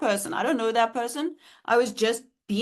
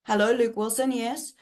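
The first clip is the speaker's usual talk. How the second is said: demo of phone talk; 3 semitones higher than usual. Shown as a demonstration. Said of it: "This is how I was on the phone".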